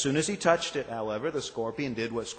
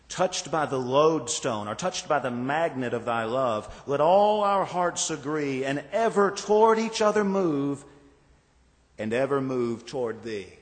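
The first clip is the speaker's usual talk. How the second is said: hymn recited; 4 dB louder than usual. Acted. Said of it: "Charles Wesley describes it this way".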